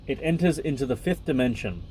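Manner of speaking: even, measured reading voice; book reading. Acted. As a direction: read the passage out steadily. Reads the book aloud.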